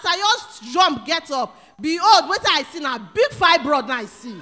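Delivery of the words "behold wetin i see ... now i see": loud, excited outburst; excited shout. Real, not acted. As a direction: shout out the climax of the testimony. Testimony climax, shouting.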